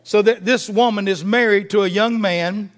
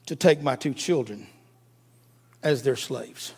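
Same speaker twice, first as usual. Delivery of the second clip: hushed widow's plea; 7 semitones lower, 6 dB quieter than usual. Retold or imitated. Widow's plea to Elisha retold.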